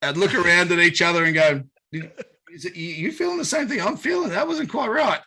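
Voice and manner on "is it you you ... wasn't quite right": high, strained mock voice; high-pitched pretend discomfort; mimicked queasy tasters. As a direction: imitate someone struggling with a bad taste. Mimics Americans disgusted by Vegemite.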